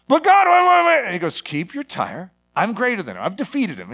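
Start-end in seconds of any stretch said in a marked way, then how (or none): 0.1-1.0 high, loud, hurried pleading; panicked protest. Acted. Believer protests to God in panic. 1.4-3.9 calm reassurance. Acted. God calmly answers the panicked protest.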